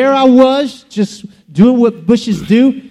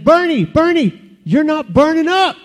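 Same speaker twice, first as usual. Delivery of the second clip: urgent calling; 5 semitones higher than usual. Acted. Friend calls out urgent news.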